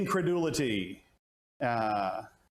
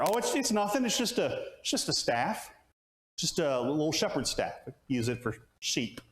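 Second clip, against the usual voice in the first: voicing Moses; 3 semitones higher than usual. Moses voiced making light excuse.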